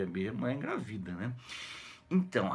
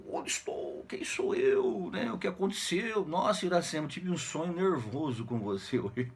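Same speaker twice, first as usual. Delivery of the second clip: mock-dazed waking voice, higher in places; 6 semitones higher than usual. Martim wakes from his dream beside Iracema, mock-dazed. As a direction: play someone lightly bewildered on waking. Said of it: "Aí ele acorda".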